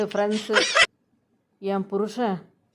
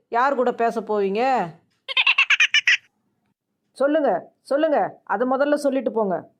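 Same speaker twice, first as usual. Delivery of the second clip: suspicious wife's challenge; 4 semitones higher than usual. Acted. Wife turns suspicious, demands an answer.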